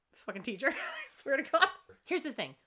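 ordinary delivery

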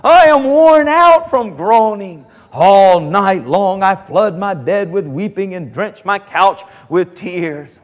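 slow, pleading lament with rising cries; anguished psalm. Retold or imitated. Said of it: "he says".

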